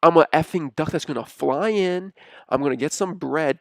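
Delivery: loud, punchy mock chant; hammed-up duck cheer. Leo imitating a USF duck mascot's cheer, mock loud chant. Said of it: "No, they say".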